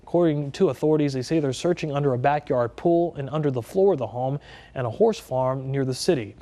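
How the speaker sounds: steady anchor news read. Acted. Anchor to viewers, steady news read. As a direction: read the headline straight to camera.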